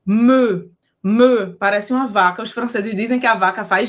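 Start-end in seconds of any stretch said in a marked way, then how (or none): 0.1-2.4 Me said with O-shaped lips and an E sound, louder; Me like a French cow; rounded E vowel. Shown as a demonstration. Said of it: "faz a boca do O e vai falar E".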